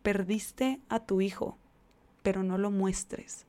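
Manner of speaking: slow, deliberate repetition; slow, pointed. Shown as a demonstration. Pointedly repeating the demand on Tony, slow and deliberate. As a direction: spell out every word slowly. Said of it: "escuchen lo que se le está pidiendo".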